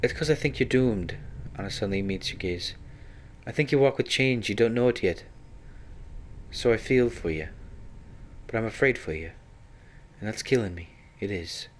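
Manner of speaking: understated fear behind a tough front; lightly voiced torn Anna. Anna telling the hero she fears for him, mildly strained.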